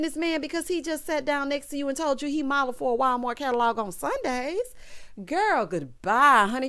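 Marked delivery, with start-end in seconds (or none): 5.2-6.7 drawn-out dismissal. Real, not acted. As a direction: stretch out the goodbye with attitude. Dismissing the cast member.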